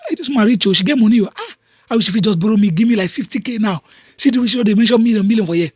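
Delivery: lightly voiced envious onlooker, mostly his own voice; half-hearted imitation of someone coveting a rich man's money; a hint of a wistful, grasping bystander; mock poor mindset. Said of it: "a poor person in his mind will say".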